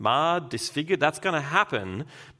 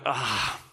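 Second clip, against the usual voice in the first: reluctant sigh. Acted. Voicing a reluctant listener's reaction.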